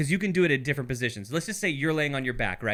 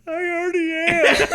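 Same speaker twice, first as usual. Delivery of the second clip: laughing reply; 12 semitones higher, 6 dB louder than usual. Retold or imitated. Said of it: "And you're like".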